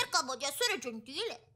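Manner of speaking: low, quiet mimicking of "Cercavo di essere gentile"; mocking parrot. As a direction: copy his words to tease. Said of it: "Fai il pappagallo?". (imitazione beffarda)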